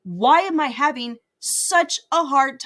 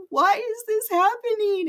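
laughing exasperation; 10 semitones higher than usual. Retold or imitated. Card fails seven times.

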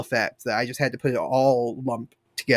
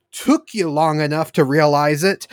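laughing villain line. Retold or imitated. Kaijin's line retold, laughing.

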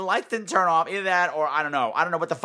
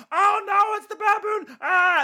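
shrill, much higher hammed-up scream of fear; mock panic; slower than usual. Mocking actors pointing at the baboon, hammed-up panic. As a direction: ham up a terrified B-movie actor. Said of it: "pointing down the hallway going".

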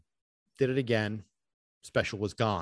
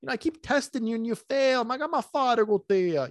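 much higher, exasperated voice of God; mocking divine reprimand, pitched way up; God scolding; 12 semitones higher than usual. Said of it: "basically God was, like, looking at me like".

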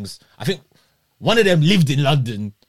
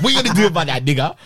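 mock taunt broken by laughter; girl's taunt retold while laughing; faster than usual. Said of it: "she gets off in my face and she goes".

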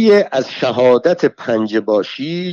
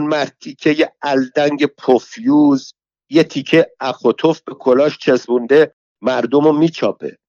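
put-on furious old woman; 4 semitones higher than usual. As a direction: spit the curses at him like a street brawler. Alaviyeh curses the guard.

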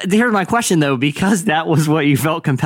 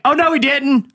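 high-pitched mock-scandalized exclamation; audience heckle; 11 semitones higher than usual. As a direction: call it out like a sassy audience member. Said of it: "or be like".

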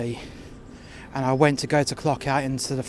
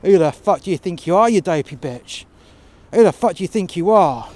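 loud, high swearing at her; furious yelling; 3 semitones higher, 6 dB louder than usual. Retold or imitated. Worker swearing furiously at his manager. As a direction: tear into her with rage.

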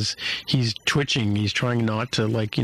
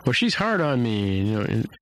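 higher, heated quote of Mariner mid-argument; arguing Mariner; 5 semitones higher than usual. Retold or imitated. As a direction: throw it back at her in an argument. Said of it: "she's like".

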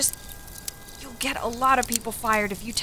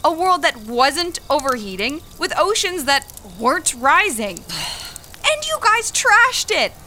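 rising bitter rant, getting higher and angrier; angry outburst; 3 semitones higher, 4 dB louder than usual. Acted. Young worker blaming the older woman, angry building rant. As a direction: throw the blame at her, building anger.

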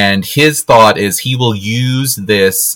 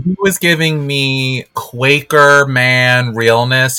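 sassy drawl; 5 semitones higher, slower than usual. Real, not acted. Drawn-out sassy commentary.

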